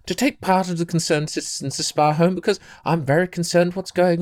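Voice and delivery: a hint of a prim old woman introducing herself. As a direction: play her as a proper elderly busybody, only lightly. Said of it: "a slightly prim and proper old woman".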